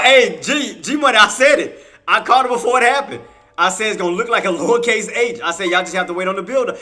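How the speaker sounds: worked-up, triumphant and loud; excited boasting. Real, not acted. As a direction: crow about calling it. Excited boast, then surprise gift.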